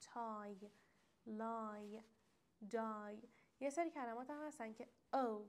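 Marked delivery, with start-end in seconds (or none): 0.0-3.2 تای، لای، دای each ending in a full "eye" glide. Shown as a demonstration. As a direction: model تای، لای، دای one at a time with "ai".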